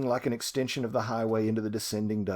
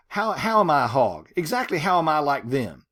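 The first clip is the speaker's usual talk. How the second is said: indignant; 5 dB louder than usual. Acted. Teacher voices Ruby's outraged prayer.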